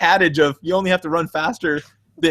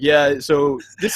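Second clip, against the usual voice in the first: deadpan; 3 semitones lower, much slower than usual. Retold or imitated. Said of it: "he's so deadpan".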